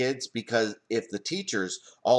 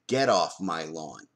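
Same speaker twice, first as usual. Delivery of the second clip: a hint of a cranky old man, lower and slow; grumpy old man; 6 semitones lower, slower than usual. Old man shooing kids off his lawn, mild low grumble. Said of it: "Yes, I'm an old man".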